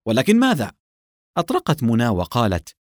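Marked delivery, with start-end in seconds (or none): 0.1-0.7 higher, irritated challenge; exasperated interruption. A narrator's reading. Officer cutting off his lieutenant's excuse, exasperated. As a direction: cut in with a touch of exasperation. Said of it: "قاطعها أدهم قائلا بغيظ".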